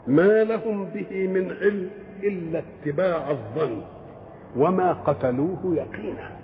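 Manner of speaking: slow, measured chant of the verse; Quran recitation. Acted. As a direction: intone the verse slowly and reverently.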